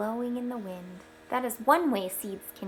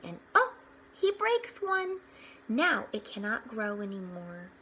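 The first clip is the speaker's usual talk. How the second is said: bright storybook read-aloud; gentle storyteller voice; reading to children; 3 dB louder than usual. Acted. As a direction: read it out like a picture book for the class. Reading picture book aloud to children.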